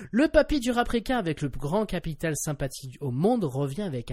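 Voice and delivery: lightly voiced host reading a script; scripted podcast intro, lightly performed; radio host read. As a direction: present the topic like a show host. Continues the scripted topic read.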